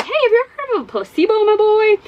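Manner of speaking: high, oily pharmacist voice; creepy pharmacist. Retold or imitated. Pharmacist telling Eddie about placebos, high and oily. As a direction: sell the placebo line slyly. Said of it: "He's like".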